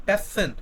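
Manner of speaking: প্যাসেন as pas-sen with a held double s; doubled s. Shown as a demonstration. Teacher showing students the double s, doubled consonant pronunciation. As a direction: split প্যাসেন between two s sounds. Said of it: "double এস আনতে হবে আমার দ্বিতীয় উচ্চারণ".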